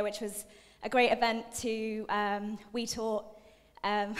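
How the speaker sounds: winded after dancing, gasping between words; out of breath. Real, not acted. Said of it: "I'm really out of breath now".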